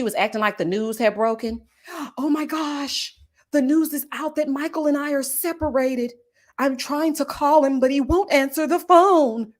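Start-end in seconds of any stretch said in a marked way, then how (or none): 1.9-9.5 a gasp, then a lightly hammed-up panic; mild mock gasp and dramatic worry; mock dramatic Ashley. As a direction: fake the breaking-news panic. Mocking Ashley's fake drama.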